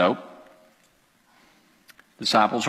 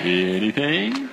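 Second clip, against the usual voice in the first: slow rising anything; slower than usual. Shown as a demonstration. Pastor has the congregation say it, slowly. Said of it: "Say anything".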